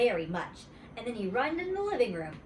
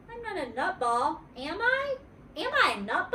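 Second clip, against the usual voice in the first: worried; 10 semitones higher than usual. Acted. Worried child pleading.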